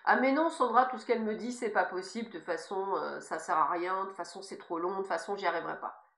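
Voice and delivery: grumbling, defeatist whine; sulky and stubborn, voicing the inner ego. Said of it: "c'est celui qui reste buté".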